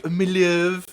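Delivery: hammed-up West Country farmer accent. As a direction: greet them in a high rustic West Country burr. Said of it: "fucking farmer shit down here".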